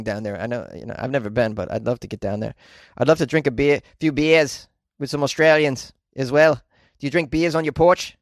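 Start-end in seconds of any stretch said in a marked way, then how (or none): 3.0-8.2 badly faked Australian accent, played for laughs; shitty Australian accent. Podcaster chatting up Australian listeners about drinking beers, in a bad Australian accent. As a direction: have a half-hearted go at an Australian accent. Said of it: "that's a shitty Australian accent".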